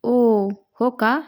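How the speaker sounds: slow, drawn-out teasing "really?"; teasing drawl. A narrator's reading. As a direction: stretch it out, playfully doubting. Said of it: "अपर्णाने भुवया उंचावून विचारलं".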